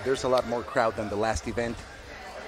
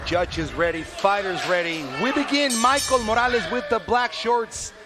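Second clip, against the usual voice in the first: excited; 6 semitones higher than usual. Real, not acted. Commentator calling the fight start.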